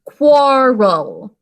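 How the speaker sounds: quarrel stretched out slowly and loudly, each sound clear. Shown as a demonstration. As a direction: spell it out slowly, syllable by syllable. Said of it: "going a little slower".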